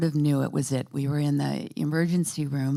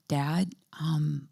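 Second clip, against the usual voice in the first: gentle whisper. Retold or imitated. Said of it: "kind of gently said".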